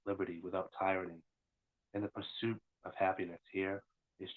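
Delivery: measured recital of a macabre poem; solemn horror verse, lightly performed; poem reading. Acted. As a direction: read it in deliberate phrases, settling at each line's end. Reads own horror poem aloud.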